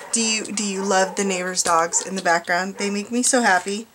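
deadpan mock delight over the barking dogs; dry, understated sarcasm about noisy neighbor dogs; sarcastic. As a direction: fake cheer, meaning the opposite. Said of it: "More sarcasm".

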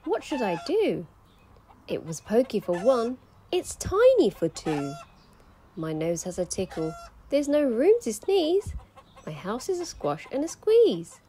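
put-on a fretful little old lady; crying old lady. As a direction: complain in a fussy old lady voice. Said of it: "The little old lady cried".

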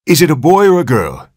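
father presses the irritated doctor; anxious question. Acted. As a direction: press him for the answer.

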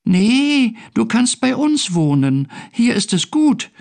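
high, friendly tiny-being voice; little creature. A narrator's reading. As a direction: coax like a small storybook creature. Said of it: "sagte das kleine Wesen".

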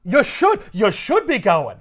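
high slow loud sneer; catty Felicia. Retold or imitated. Felicia shoos Mary Jane away, slow catty sneer. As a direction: purr it out, catty and smug. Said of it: "Felicia goes".

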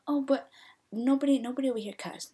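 insistent, hammed-up denial; mock denial. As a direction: plead innocence in a mimicked voice. Imitating players denying cussing.

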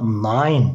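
"nein" said NAYN. Shown as a demonstration. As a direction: model "nein" with an ay glide. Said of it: "E, i'ye ay koyuyoruz".

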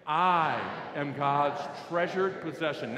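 slow, fairly loud declaration; measured lead-along, words drawn out; slow recitation. Shown as a demonstration. Preacher leading the congregation's second repetition, slow recitation. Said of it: "then we're gonna say it loudly".

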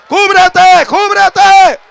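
high, full-force preacher's shout; explosive high shouts, each one falling at the end; shouted command. Real, not acted. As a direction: cry it out as an urgent command. Preacher commands congregation to cover themselves.

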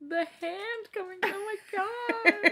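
real shock at a scary story; stretched-out disbelief; horrified. Real, not acted. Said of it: "It is terrifying".

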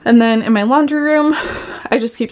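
breathless from cleaning; puffing between words; out of breath. Real, not acted. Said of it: "I'm out of breath 'cause I'm cleaning".

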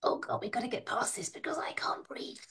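gasping it out under her breath; breathless whisper. Retold or imitated. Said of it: "I'm like".

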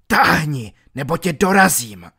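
loud, harsh snarl; villain threatening his wounded comrade; rough threat. Acted. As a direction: shove him off with a threat. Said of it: "odpověděl Petr hrubě".

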